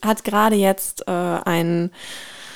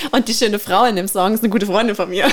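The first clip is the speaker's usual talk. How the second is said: laughing while talking; faster than usual. Real, not acted. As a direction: talk through laughter.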